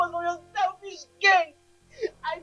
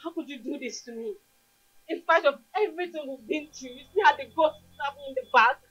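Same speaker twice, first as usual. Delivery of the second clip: hurt reproach; 4 semitones lower than usual. Acted. Betrayed lover confronting partner.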